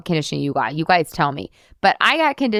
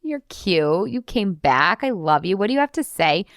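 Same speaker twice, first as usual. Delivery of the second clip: cheeky; slower than usual. Pretend. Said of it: "cheeky and be like".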